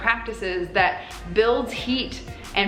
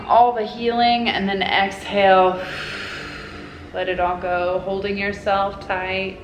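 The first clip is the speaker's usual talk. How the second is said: guided meditation. Acted. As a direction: guide them gently into the hug. Leads a guided hug meditation.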